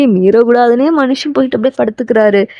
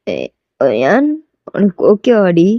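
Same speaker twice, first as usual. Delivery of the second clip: voiced male lead; 4 semitones lower, much slower than usual. Taeyang's low reply to proposal.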